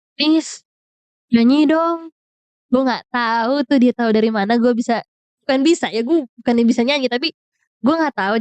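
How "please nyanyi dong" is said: higher, coaxing please; pleading quote. Retold or imitated. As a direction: coax him sweetly to sing. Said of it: "Dia tuh minta gue nyanyi". (merengek minta dinyanyiin)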